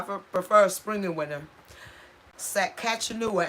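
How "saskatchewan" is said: "Saskatchewan" said slowly, sa-katch-uh-nuh; deliberate slow "Saskatchewan"; checking "Saskatchewan" pronunciation; careful pronunciation. Shown as a demonstration. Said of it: "Am I pronouncing that right?".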